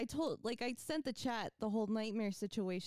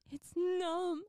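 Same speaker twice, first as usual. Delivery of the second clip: higher, louder mock complaint; retold huffy announcement; imitated sassy; 6 semitones higher, 5 dB louder than usual. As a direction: mimic a sassy, aggrieved partner. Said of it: "with the sassiest".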